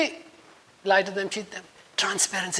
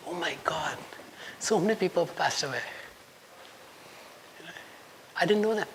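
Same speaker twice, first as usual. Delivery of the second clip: softer, choked-up voice; getting emotional; 8 dB quieter than usual. Real, not acted. Speaker telling students about relatives lost, emotional. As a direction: let it catch as you say it. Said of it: "I'm getting emotional".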